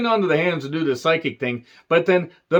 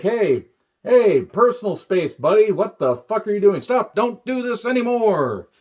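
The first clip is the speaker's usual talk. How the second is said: exasperated play-acted telling-off; mock protest; 3 semitones higher than usual. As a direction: fend off someone crowding you, drawing out the last words. Mock telling-off of the intrusive camera.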